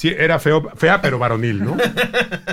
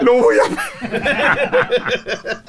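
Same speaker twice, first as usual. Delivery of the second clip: panicked falsetto wail; 10 semitones higher, much slower than usual. Retold or imitated. Panicked falsetto cry while fleeing.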